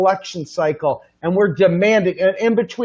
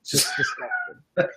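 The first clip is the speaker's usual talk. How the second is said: mock disgust; 8 dB quieter than usual. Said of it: "mock disgust".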